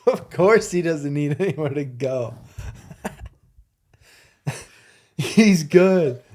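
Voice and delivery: real helpless amusement, voice pushed up; talking through laughter. Real, not acted. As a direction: squeeze the words out between laughs. Cracking up over the bird joke.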